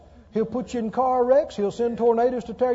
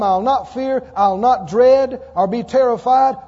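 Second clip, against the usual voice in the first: louder, bold declaration; full-force preaching; 6 dB louder than usual. Acted. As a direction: proclaim it boldly to the church. Preacher urging bold confession.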